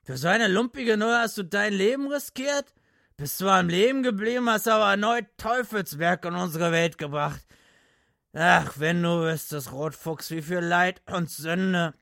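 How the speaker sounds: put-on high, loud drunken lament. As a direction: mourn it like a drunk preacher.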